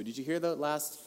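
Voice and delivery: usual speaking voice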